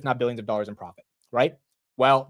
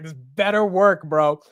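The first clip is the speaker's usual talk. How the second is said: gritted determination; 3 semitones higher, 5 dB louder, slower than usual. Retold or imitated. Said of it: "I was like".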